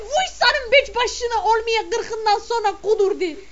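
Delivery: scolding the husband who wants to dance; mock scolding. Snapping back at her husband.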